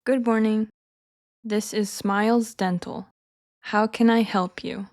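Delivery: slow, careful receptionist line; slowly first. Shown as a demonstration. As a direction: take it slowly so learners can copy. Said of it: "I'll say each one slowly first".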